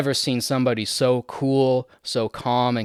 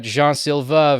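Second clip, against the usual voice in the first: French accent; 3 semitones higher, 4 dB louder, slower than usual. Real, not acted. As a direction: say "Jean" the French way, like "zhahn". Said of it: "saying it with a French accent".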